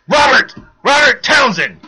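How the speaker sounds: high, loud howl of a name. A narrator's reading. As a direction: howl it out in rage. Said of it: "Marshall howled".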